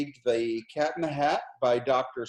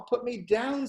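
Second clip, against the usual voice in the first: much higher squeaky fish cry; panicky fish; 10 semitones higher, slower than usual. A narrator's reading. Fish shrieks again.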